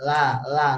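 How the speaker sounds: "La" dengan ujung lidah di gusi, tidak menyentuh gigi; la tipis. Shown as a demonstration. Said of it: "La itu nggak boleh nyampe gigi". (contoh "la" tipis)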